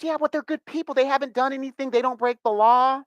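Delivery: put-on the friend insisting, in a Latina accent; Latina accent imitation. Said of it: "She goes".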